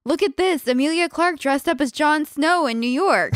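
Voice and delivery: high-pitched mock excitement, quoting him; imitating excited husband. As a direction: mimic someone thrilled to share news. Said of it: "you showed it to me and go".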